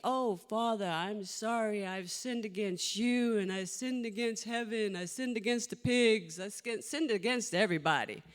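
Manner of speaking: tirade. Retold or imitated. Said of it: "he started going off in a tirade".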